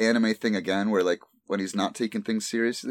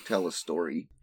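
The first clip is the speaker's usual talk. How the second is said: nerd voice; 4 dB quieter than usual. Acted. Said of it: "Why'd you say that in the nerdiest voice".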